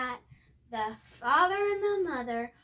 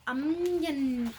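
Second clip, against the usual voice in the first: surprised gasp. Real, not acted. Gasps at the page.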